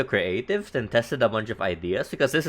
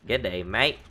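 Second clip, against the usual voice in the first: quick, light Australian greeting; Australian accent; 2 semitones lower than usual. Pretend. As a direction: toss off a casual Aussie G'day. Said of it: "I do love a good Australian accent".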